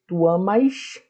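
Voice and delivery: amas com o S chiado carioca, como "amaxe". Shown as a demonstration. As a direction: chie o S final de "amas". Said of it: "S chiado de carioca". (S chiado carioca em "amas")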